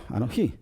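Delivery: "anoji" stressed on the final "ji"; stress on last syllable. Shown as a demonstration. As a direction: say "anoji" with the accent landing on "ji". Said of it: "con el acento en la última sílaba".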